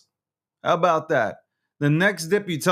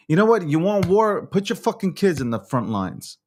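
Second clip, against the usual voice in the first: angry challenge; 4 semitones higher than usual. Real, not acted. Host challenging those who want war, angry. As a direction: throw it out as a heated dare.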